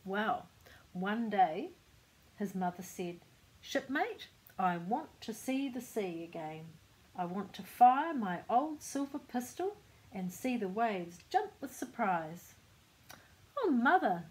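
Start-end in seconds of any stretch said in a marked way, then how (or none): 3.6-12.5 bold pirate mum, pitched up on the call and louder; a lightly voiced old pirate woman, hearty and keen; eager old pirate woman calling to her son; old pirate mother. 13.6-14.2 high, loud fretful protest; a timid son objecting, voice up and louder; a fussy little man pleading with his mother; worried son. Acted.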